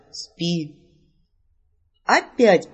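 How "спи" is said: soft, calm spell word; calm command. Acted. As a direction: lay the word down quietly like a spell. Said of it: "Предупреждаю". (маг спокойно и тихо усыпляет героиню)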